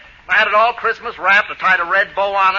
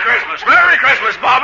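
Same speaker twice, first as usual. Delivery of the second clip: raised, jolly Santa greeting; hearty Santa; 4 semitones higher, 3 dB louder than usual. Acted. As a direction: hail the child as Santa, building in pitch. Fake Santa greets the boy.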